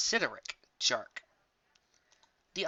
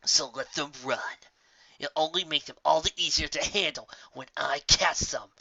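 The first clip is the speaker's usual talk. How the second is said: menacing inner thought. Acted. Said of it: "she thought".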